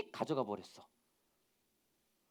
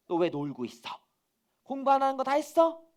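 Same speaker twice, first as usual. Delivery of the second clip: lightly voiced scolding mother, rising sharply at the end; nagging mother; 7 semitones higher, 4 dB louder than usual. Mother catches child playing instead of studying, nagging. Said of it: "엄마가 잔소리할 때".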